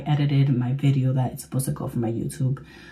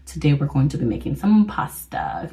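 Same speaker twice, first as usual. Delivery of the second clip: whispering while hiding; 2 semitones higher, 6 dB quieter than usual. Real, not acted. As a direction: whisper so nobody hears. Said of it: "I'm hiding in the bathroom right now".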